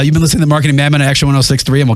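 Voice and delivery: fast announcer sign-off; radio outro. Acted. Host signing off the show to listeners, quick announcer read. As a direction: rattle off the station tag like a DJ.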